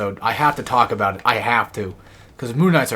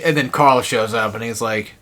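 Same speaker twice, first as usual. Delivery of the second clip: usual speaking voice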